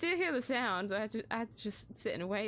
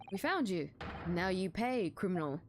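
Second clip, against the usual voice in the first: stern accuser; 6 semitones lower than usual. Acted. Officer scorning the suspect he pulled from a wardrobe, lower stern voice. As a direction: talk down to a suspect you dragged out.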